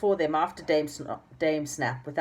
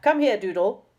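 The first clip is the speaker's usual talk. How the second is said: higher, louder command; stern summons; 7 semitones higher, 7 dB louder than usual. A narrator's reading. Dame Snap calling Doodle to her, stern. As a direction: order him over sharply. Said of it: "was shouted at very loudly".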